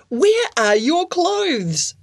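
slow, aghast whisper; shocked whisper at a naked boy. Acted. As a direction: breathe it out in shock.

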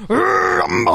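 high, drawn-out announcer yell; ring announcer shout. Shown as a demonstration. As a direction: stretch it out like a fight-night hype call. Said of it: "Give us another one".

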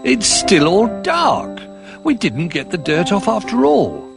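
a disappointed little bear; Little Bear dismayed. Acted.

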